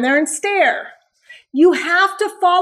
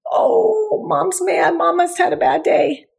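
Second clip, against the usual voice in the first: voicing the dog; 4 semitones higher than usual. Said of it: "What did you do?".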